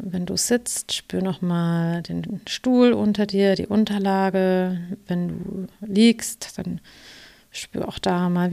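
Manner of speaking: slow, calm meditation guide voice; guided meditation. Acted. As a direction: ease the listener into relaxation. Coach leads a guided meditation.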